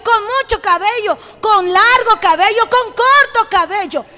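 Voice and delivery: driving, rhythmic preacher's build; rising sermon cadence; impassioned preaching. Acted. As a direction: preach God's love in insistent short bursts, building in force.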